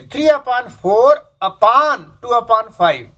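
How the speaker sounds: three upon four upon two upon five धीरे, हर शब्द साफ़; पढ़ाते हुए धीमे और स्पष्ट; correct reading, slow. Shown as a demonstration. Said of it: "तो आपको यही बोलना है". (शिक्षक की तरह धीमे-धीमे पढ़ना)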